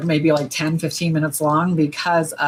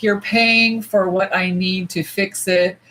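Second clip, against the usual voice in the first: quoting him; slower than usual. Retold or imitated. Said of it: "He was like".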